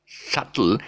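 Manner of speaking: "subtle" as SUT-ul; silent B. Shown as a demonstration. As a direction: say "subtle" with the B dropped. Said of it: "the B is silent".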